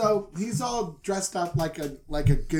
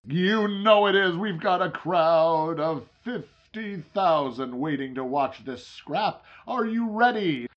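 ring announcer; 4 dB louder than usual. Acted. Wrestling announcer hype to camera.

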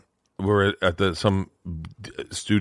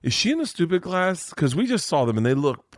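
pitched-up, anxious mock whine; high worried dad; 9 semitones higher than usual. Dad panicking to wife about the stupid class, high whine. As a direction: fret to his wife like a panicked father. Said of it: "And I'm like".

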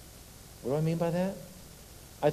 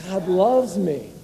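slow, louder, lifted God loves me; giddy conviction; 4 semitones higher, 5 dB louder, much slower than usual. Shown as a demonstration. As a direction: say it like a thrilled child. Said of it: "with that little giddiness of a child".

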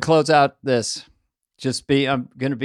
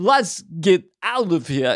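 Walken impression. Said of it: "It's its own dialect, Chris Walken".

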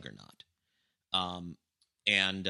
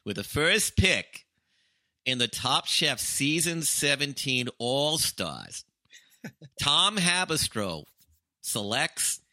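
slow, high, loud commissioner announcing a pick; David Stern draft announcer; 7 semitones higher, 5 dB louder, slower than usual. Retold or imitated. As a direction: boom out the draft pick slowly like the old commissioner. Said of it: "I can imitate an old Jew".

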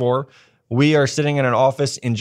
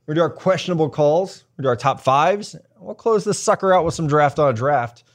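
podcast host intro; 3 semitones higher than usual. Acted. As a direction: pump up the listeners. Hosts the show intro.

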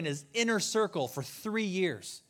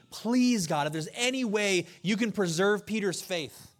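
pleading prayer; 2 semitones higher than usual. Retold or imitated. Jesus on his knees pleading for Peter, urgent. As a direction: plead with God for Peter's faith. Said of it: "on his knees pleading".

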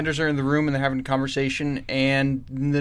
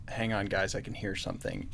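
whispered, softer alert; quiet whispered caution; hushed warning; 3 semitones lower, 9 dB quieter than usual. Retold or imitated. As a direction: hush the team, listening hard. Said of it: "our old man Daredevil says".

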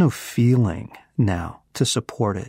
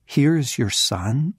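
amazed question, pitched up; incredulous; 4 semitones higher than usual. Retold or imitated. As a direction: echo it as if it cannot be believed. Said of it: "you have got to be kidding me".

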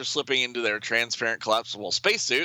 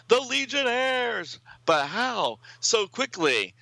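shocked villain; slower than usual. Acted. Villain shocked at heroes' arrival.

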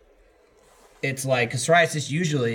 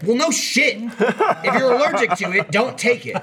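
high, laughing sarcastic disbelief; exasperated; 10 semitones higher, 4 dB louder than usual. Retold or imitated. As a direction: scoff at how obvious it is. Mocking the drug commercial.

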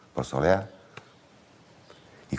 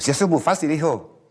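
put-on cocky little boy; 12 semitones higher, 3 dB louder than usual. Boy boasting to his brother.

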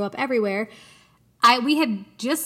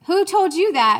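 mock demanding, higher and louder; sharp question; 8 semitones higher, 6 dB louder than usual. Mom retelling how she confronted her daughter, mock sharp. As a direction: put the kid on the spot.

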